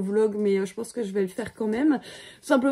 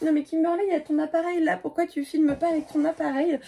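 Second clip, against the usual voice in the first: higher-pitched imagined viewer; questioning viewer; 4 semitones higher than usual. Retold or imitated. Imagined viewer asks the vlogger about her camera, mildly mock-protesting. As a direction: lightly mimic a viewer's objection.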